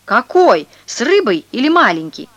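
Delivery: agitated man yelling. A narrator's reading. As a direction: howl the question at the crowd. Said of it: "завопил".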